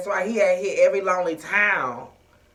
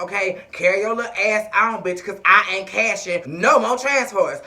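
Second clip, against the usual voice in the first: secretary voice; 3 semitones lower than usual. Retold or imitated. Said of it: "was like".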